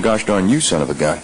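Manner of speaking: mean it at the person in the room; directed at someone. Retold or imitated. Man walks in cursing at someone, lightly imitated hostility. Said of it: "if he walks in the room going".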